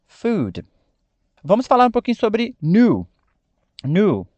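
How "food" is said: "Food" ending cleanly on d; correct English. Shown as a demonstration. Teacher giving the final correct form to students. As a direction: say "Food" the English way, no vowel after. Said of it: "a pronúncia dessa palavra é food".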